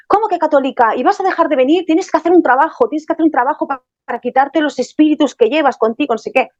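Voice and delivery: a touch of anger, pressing her hard; retold angry man. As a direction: she quotes the angry man who won't let her leave. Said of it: "Se enfadó, se enfadó".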